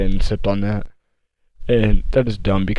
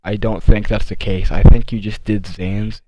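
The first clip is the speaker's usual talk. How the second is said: a touch slower, patient explaining; talking slow to her; 5 dB louder than usual. Retold or imitated. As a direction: spell it out gently for someone who's not following. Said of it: "he was talking slow".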